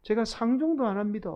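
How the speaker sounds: exasperated Gyeongsang dialect denial; plead, then disown him in thick Gyeongsang dialect; cursing in Gyeongsang dialect. Acted. Peter cursing Jesus to be believed, exasperated Gyeongsang dialect. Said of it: "막 그렇게 막 예수님께 저주를 퍼부은 거예요".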